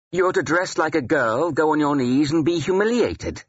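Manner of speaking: high, teasing relish; gleeful taunt. Acted. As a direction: crow over his humiliation in a high voice. Ethelwald gleefully taunts the narrator.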